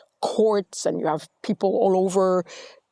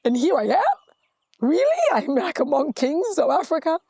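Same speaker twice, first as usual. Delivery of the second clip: incredulous inner voice; 5 semitones higher than usual. Retold or imitated. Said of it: "But it's now like".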